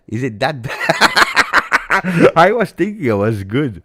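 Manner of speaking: high, loud, breaking into real laughter; laughing. Real, not acted. Streamer told his accent is bad, laughing. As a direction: laugh through the disbelief, drawn out.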